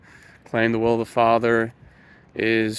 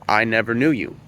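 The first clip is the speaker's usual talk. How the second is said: "never" stressed, the line falling to a close; 4 dB louder than usual. Shown as a demonstration. Preacher quoting Jesus' verdict to listeners, with emphasis on "never". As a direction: lean on "never", louder, then let the pitch fall. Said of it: "Notice the emphasis on the word never".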